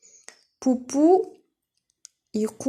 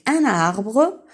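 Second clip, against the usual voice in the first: slow model phrase; 2 semitones higher, 4 dB louder than usual. Shown as a demonstration. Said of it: "teacher models".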